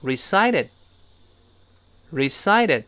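"recited" with a d-like middle t, last stop held back; voiced t, unreleased ending. Shown as a demonstration. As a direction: say "recited" as "re-SI-ded", ending unexploded. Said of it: "中间那个t浊化，最后那个t失去爆破".

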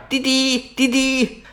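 high imitated horn beeps; honking horn. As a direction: beep like a car horn. Imitating a car horn behind. (模仿汽车喇叭滴滴声)

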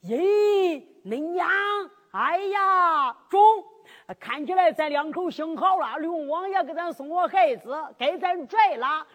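put-on loud, high cries of delight from an old fisherman; an old man thrilled at a found baby; old fisherman shouting his joy to his wife; overjoyed old man. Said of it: "老头来到跟儿个正经一看".

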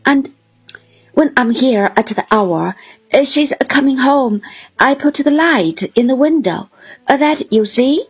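a lightly voiced bluff old seaman, welcoming; hearty fisherman. Mr Peggotty explains the candle.

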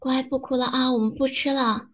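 soft, coaxing reassurance; gentle soothing. Acted. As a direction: hush a crying partner softly. Soothing a crying girlfriend.

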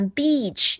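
"beach" with a long tense ee; careful long vowel in "beach". Shown as a demonstration. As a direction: stretch the ee in "beach". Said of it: "一定要发长音E".

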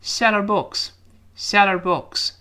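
"seller books", SELL HER as one word; linked, H dropped. Shown as a demonstration. Teacher showing the lost H, linked. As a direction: let the H vanish between SELL and HER. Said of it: "那个H被打穿了".

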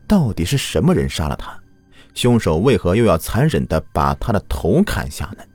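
steady, grave case narration; true crime narrator. A narrator's reading. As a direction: tell the case like a crime podcast.

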